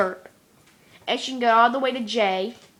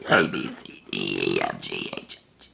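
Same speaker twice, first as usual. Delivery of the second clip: letters belched low, fading out; burped alphabet; 4 dB quieter than usual. Shown as a demonstration. Burping the alphabet for viewers in one belch. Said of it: "how far I can get in the alphabet".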